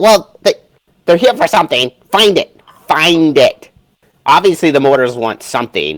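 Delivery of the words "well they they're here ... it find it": squeaky, little, piping, pitched-up voice. Describing a voice heard in the scene, squeaky voice. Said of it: "in a kind of squeaky voice".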